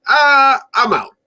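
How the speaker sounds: a hammed-up teen bailing out; fed-up kid. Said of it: "Michael's like".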